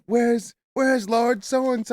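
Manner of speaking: high, slow put-on whine; squeaky cartoon voice. Cartoon Lowry demanding the lord, slow squeaky whine. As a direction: drag it out in a squeaky voice.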